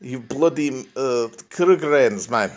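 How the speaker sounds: a mock South African accent, Krugerrands drawn out slowly; hammed-up South African villain accent. Streamer imitating Lethal Weapon villains in a mock South African accent. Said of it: "nothing better than a big South African accent".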